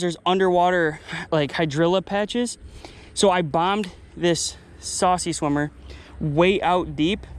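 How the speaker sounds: breathless, winded narration; out of breath. Real, not acted. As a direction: push words out between breaths. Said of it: "I'm kind of out of breath".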